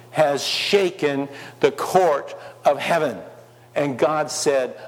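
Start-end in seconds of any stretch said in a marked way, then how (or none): none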